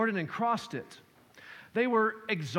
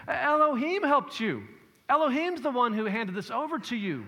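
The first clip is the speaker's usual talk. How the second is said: emphatic Gideon; 5 semitones higher, 4 dB louder than usual. Acted. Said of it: "Gideon saying here".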